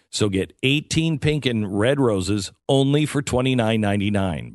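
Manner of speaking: upbeat sponsor pitch, emphatic at the start; ad read. Acted. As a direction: sell it like a live radio ad.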